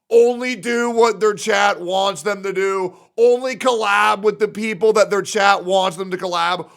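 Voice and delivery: mock a demanding chat member; loud mocking impression of an entitled viewer; mocking whiny viewer. Mocking fans demanding real streamers.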